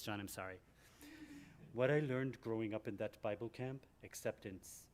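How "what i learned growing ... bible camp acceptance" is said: put-on Minnesota accent. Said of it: "I'm gonna do the Minnesota voice".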